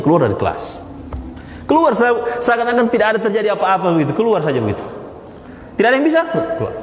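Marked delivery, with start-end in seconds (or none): 5.8-6.3 mock teacher, raised question. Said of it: "Apa yang dilakukan Ustadz ini?".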